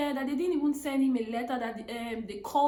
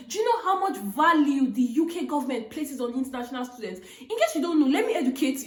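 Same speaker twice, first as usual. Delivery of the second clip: laughing through it; 4 semitones higher, 5 dB louder than usual. Retold or imitated. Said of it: "It was just me all laughing".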